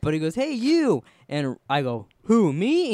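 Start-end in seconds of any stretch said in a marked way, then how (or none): 0.3-1.0 high, loud shout; retold biker yell. Biker calling again. 2.2-2.9 high, loud who me; startled reply. Retold or imitated. Himself answering the biker.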